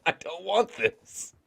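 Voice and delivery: high, laughing mock protest; giggling fake outrage. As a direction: squeal it out through laughter. Mandalorian voiced, laughing.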